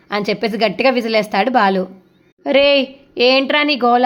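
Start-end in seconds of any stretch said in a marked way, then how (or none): 2.5-4.1 louder, higher and slow; annoyed complaint. Acted. Family complains to Balu about his whistling, irritated. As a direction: drag it out, fed up with the noise.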